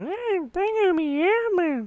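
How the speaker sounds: very high-pitched puppet voice. Explaining how hard it is to do the puppet's voice: high-pitched Elmo voice. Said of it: "you have to do like high pitched".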